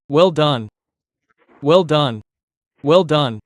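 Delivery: warm repeated praise for the dog. Shown as a demonstration. Trainer praising the dog warmly. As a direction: say it like a reward. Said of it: "When the dog hears, "Well done".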